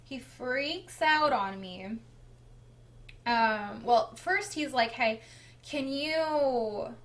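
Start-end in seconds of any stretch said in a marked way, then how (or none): 4.9-7.0 mildly frustrated mimicked demand, halting start. Husband asking wife where the taxes are, mildly frustrated. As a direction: lightly act out his impatience, a bit louder. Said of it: "Like, he's frustrated".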